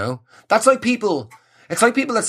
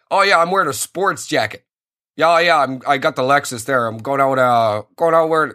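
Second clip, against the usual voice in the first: mock Canadian. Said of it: "that's Canadian".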